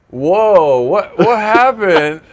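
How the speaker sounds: high, loud startled cry; shocked gasp. Pretend. Friend sees bloody hands, high shocked shout. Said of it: "and goes".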